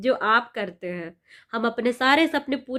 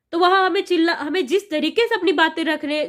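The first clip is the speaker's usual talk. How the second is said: raised voice; 5 semitones higher, 4 dB louder than usual. Real, not acted. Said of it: "अपना आवाज़ कभी-कभी उठाना चाहिए".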